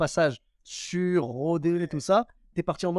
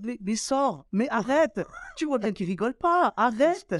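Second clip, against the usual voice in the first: higher-pitched exasperated inner voice; pleading with himself; 6 semitones higher, slower than usual. Acted. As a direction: beg yourself to get off stage. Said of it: "t'es là en mode".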